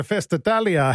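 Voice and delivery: put-on hammy Italian accent on the event name; mock Italian accent, lightly done. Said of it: "That was a terrible Italian accent".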